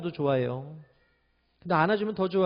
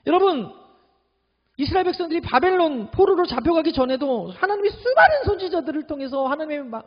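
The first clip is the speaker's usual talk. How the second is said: ordinary delivery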